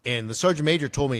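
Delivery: ordinary delivery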